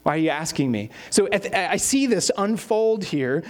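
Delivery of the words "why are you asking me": mildly fed-up, understated retort; a touch of mock exasperation; eye-rolling exasperation. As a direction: answer a nagging buddy with weary annoyance. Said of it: "rolling your eyes going".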